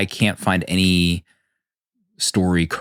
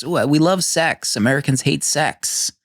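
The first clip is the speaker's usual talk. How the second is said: higher, hammed-up Dutch accent; 7 semitones higher than usual. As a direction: play a Dutch guy in a high, hammy accent. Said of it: "But with a Danish Dutch accent".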